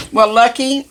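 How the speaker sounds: a high, bubbling laugh into the words; real delighted giggle. Real, not acted. Laughing at dog's reaction.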